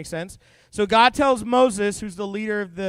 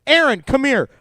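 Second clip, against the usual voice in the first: loud, higher, thrilled calling Aaron over; excited call; 4 semitones higher, 7 dB louder than usual. Pretend. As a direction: yell for Aaron in delight. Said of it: "I'd be like".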